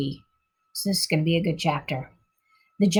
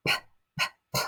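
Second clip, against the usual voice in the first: high, frightened stammer; terrified little girl begging the giant; stammering in fear; 5 dB louder than usual. A narrator's reading. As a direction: stutter out the plea, terrified. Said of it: "Sophie stammered".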